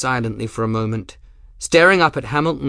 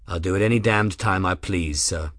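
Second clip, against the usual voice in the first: same level voice; 2 semitones lower than usual. Acted. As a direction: say it flatly, no heat at all. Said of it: "in the same level voice".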